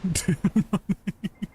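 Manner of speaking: rapid staccato string of little laughs; a fast, pulsing giggle; quick breathless laugh. Real, not acted. Streamer running in the game, breathless laughing.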